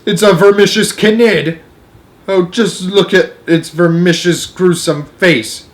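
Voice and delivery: high, drawn-out exclamations of alarm; horrified cry. A narrator's reading. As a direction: cry out, dragging the gruesome words. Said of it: "cried the chief of police".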